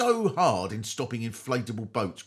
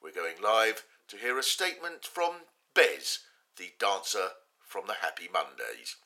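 lightly done plummy announcer, lower; BBC announcer; 5 semitones lower than usual. Retold or imitated. Comic announcing a statement on Ukraine, mock BBC announcer voice. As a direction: intone it like a newsreader. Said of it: "if a B B C announcer said".

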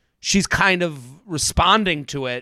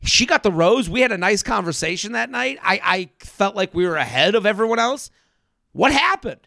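doubling down; 3 semitones higher than usual. Retold or imitated. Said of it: "she could have doubled down on".

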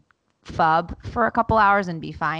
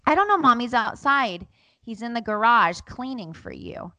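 higher-pitched child imitation; innocent kid; 5 semitones higher than usual. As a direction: answer like an unbothered little boy. Voices son answering.

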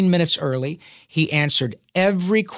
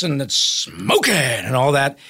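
cowboy voice; slower than usual. Shown as a demonstration. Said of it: "if it's a cowboy, it's like this".

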